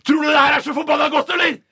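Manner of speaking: high, loud angry shout; furious baby shout. A narrator's reading. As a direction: yell it in outrage. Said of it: "Ungen skriker ut".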